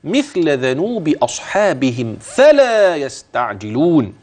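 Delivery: slow chanted verse; measured tajweed reading; recitation. Shown as a demonstration. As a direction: intone the verse ending. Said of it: "وهنا نقف آية".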